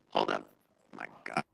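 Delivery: muffled, garbled audio; bad connection distortion; underwater. Real, not acted. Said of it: "It sounds like you're underwater".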